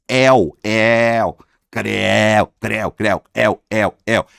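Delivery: "el" as a loud, wide-open "éu"; open diphthong. Shown as a demonstration. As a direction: belt "el" and "creu" as open "éu", repeated playfully. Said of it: "é um ditongo aberto".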